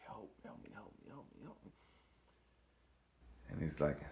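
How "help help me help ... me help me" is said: weak whispered plea. Retold or imitated. Begging guide while fasting, weak.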